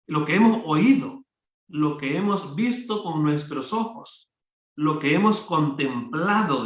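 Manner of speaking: hemos lifted and leaned on each time; stress on hemos. Acted. Preacher to congregation, stressing hemos. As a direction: press hemos as eyewitness proof. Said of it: "dice, así lo vieron ellos".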